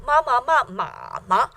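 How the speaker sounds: MA MA MA in changing tones, last MA light; jingle with neutral ending. Shown as a demonstration. Teacher replaying the jingle, tonal MA syllables. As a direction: recite each MA in its tone, ending unstressed. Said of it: "the very last syllable".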